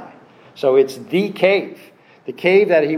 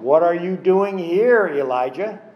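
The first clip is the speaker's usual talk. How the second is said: lifted, louder voice of God asking; rising question to Elijah; 3 semitones higher, 5 dB louder than usual. Shown as a demonstration. God questioning the prophet Elijah, lifted and louder. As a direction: ask it as God would, pressing. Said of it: "emphasize certain things just with the tone of your voice".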